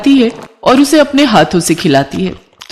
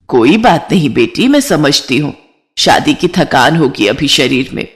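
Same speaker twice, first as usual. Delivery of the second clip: lightly voiced reassuring older relative; a hint of low, motherly comfort; understanding mother-in-law; 4 semitones lower than usual. (समझदार सास की हल्की नीची आवाज़)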